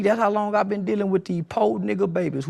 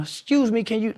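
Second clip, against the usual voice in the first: mock polite; 2 semitones higher than usual. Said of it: "you think you finna come".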